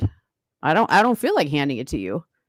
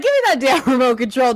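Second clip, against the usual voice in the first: imitating yell; 7 semitones higher than usual. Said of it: "you'd be like".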